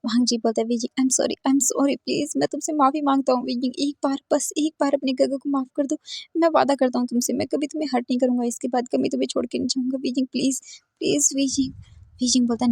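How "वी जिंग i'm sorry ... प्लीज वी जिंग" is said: higher, pleading sorry; tearful apology. Acted. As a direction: beg forgiveness with a catch in the voice. Wang Ji begs forgiveness. (ऊँची आवाज़ में रोती हुई माफ़ी)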